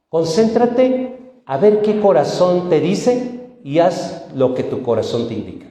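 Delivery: lightly acted parent giving advice; parent advising daughter. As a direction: draw it out as earnest counsel, then let it drop. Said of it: "A las mujeres le decimos".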